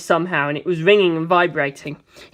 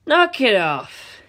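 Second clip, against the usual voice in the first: stern order; 4 semitones higher, much slower than usual. Acted. Mister telling George to stop shooting, firm. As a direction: calmly shut them down. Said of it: "he said".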